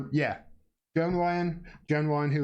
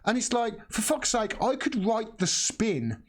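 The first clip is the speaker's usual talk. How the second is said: exasperated; 5 semitones higher than usual. Real, not acted. Exasperated rant.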